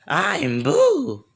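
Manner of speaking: very high-pitched creature voice with a laugh; high, hammed-up villain introduction; Boo. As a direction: squeal it like a cackling cartoon monster. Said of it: "They hear a laugh in the air".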